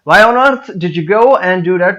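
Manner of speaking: slow question with earth stressed; emphasis on EARTH. Shown as a demonstration. Teacher repeating the serious version for learners, emphasis on EARTH. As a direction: lean on EARTH with a touch of anger. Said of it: "अर्थ के ऊपर थोड़ा सा emphasise करना पड़ेगा".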